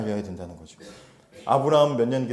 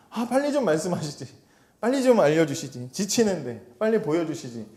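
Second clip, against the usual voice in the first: grumbling complaint; 3 semitones higher than usual. Retold or imitated. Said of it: "우리는 원망할 때가".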